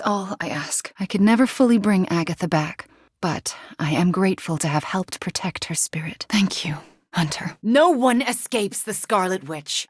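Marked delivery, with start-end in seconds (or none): 3.2-7.6 grateful whisper. Acted. Thanking Hunter for saving Agatha's spirit, whispered. 7.6-9.9 menacing witch. Acted. Scarlet Witch threatening her foes, menacing boom.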